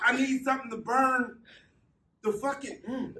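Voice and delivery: talking with a burning mouth; words through a mouth on fire; mouth burning from spicy food. Real, not acted. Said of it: "So your mouth is on fire".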